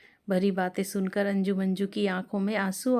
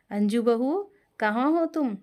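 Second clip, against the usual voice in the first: raised, higher call across the house; 3 semitones higher than usual. Acted. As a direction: call the bride from another room. Savitri calling out. (ऊँची आवाज़ में पुकारना)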